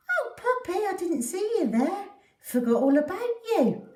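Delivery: high, bright offhand dad voice; cheery dad. Acted. Dad greeting the forgotten dog, breezy and high. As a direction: toss it off, barely noticing her.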